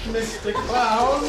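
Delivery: creepy clown voice. Acted. Creepy clown voice in horror bit.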